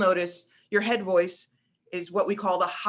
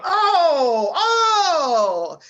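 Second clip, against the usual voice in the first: much higher, louder mock cheer; imitating a fan yelling at the game; mock football yell; 9 semitones higher, 9 dB louder than usual. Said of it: "my boyfriend yelling at the football game".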